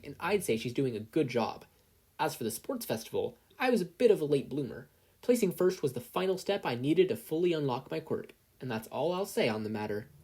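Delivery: a touch of poised press voice; calm confident Izuku. Acted. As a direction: answer reporters smoothly. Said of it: "words began to slowly and calmly flow".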